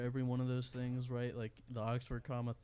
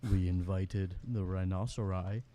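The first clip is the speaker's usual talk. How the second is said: low narrator read; hushed nature documentary; 3 semitones lower than usual. Pretend. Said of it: "Let me read this in my narrator voice".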